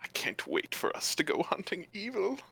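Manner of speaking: softly excited sword voice; lightly voiced eager hero; eager talking sword. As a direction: play a sword hushed with keenness.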